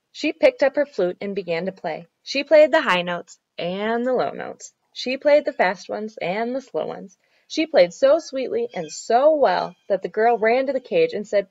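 put-on measured storytelling for children; story narration. A narrator's reading. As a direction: read it out clearly like a picture book. Reads a children's story aloud.

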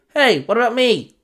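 high, loud call after her; boy calling after Riri as she leaves, loud. Acted. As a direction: shout to stop her leaving. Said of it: "Otclos called out".

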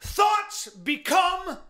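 fervent self-help tirade; worked-up preaching. Real, not acted. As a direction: hammer out slogans, drawing out key words. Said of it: "Hey, calm down".

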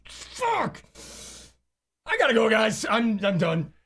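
mock yell. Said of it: "I'm like".

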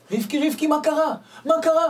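high, loud startled calling; frantic parents. Retold or imitated. Parents rush to their healed daughter, calling in shock. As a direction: cry out in alarmed amazement.

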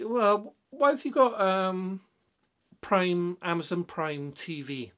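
high, loud, incredulous challenge; exasperated question. Retold or imitated. Questioning a client about the TV subscriptions, high and incredulous. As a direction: demand to know why, in disbelief. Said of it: "So I say".

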